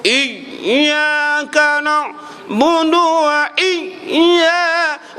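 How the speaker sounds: "iyya" pressed so hard it turns into a glottal stop, very slow; over-pressed recitation. Shown as a demonstration. Teacher mocks reciters who press too hard, slow and strained. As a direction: choke the "iyya" into a hamzah catch. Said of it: "teruk tekan sampai habis huruf".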